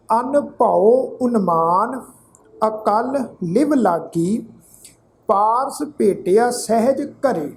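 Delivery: slow, measured verse reading with drawn vowels; scripture recitation. Shown as a demonstration. Teacher recites sacred verse to congregation, measured recitation. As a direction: recite phrase by phrase, pausing between.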